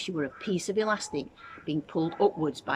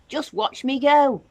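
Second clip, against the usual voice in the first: put-on higher, louder cackling-old-lady boast; gleeful Grandma; 9 semitones higher, 8 dB louder than usual. A narrator's reading. Grandma shows off to George, loud and thrilled. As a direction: crow it like a giddy old woman.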